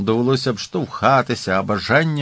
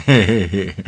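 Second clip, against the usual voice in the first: chuckle; 4 semitones lower, 4 dB louder than usual. Acted. Character chuckles mid-remark.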